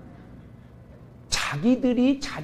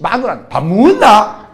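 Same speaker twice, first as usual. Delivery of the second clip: slow, louder curt demand to the wife; gruff Gyeongsang husband; 3 semitones higher, 9 dB louder, slower than usual. Retold or imitated. Terse husband demanding dinner from his wife, slow and loud. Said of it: "술집 여자하고 얘기할 때는".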